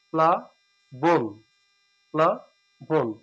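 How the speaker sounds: প্লাবন said slowly as "pla-bon"; correct pronunciation. Shown as a demonstration. Teacher models the right form for students, slow. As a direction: stretch প্লাবন out, syllables distinct. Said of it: "সঠিক উচ্চারণ হচ্ছে প্লাবন".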